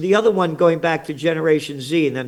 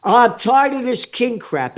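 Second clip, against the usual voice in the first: angry rant; 3 semitones higher than usual. Real, not acted. Ranting about kings.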